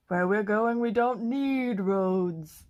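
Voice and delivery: slowed line through a laugh; a laughing mock-dramatic quote. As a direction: deliver the movie line laughing. Quoting Back to the Future, laughing.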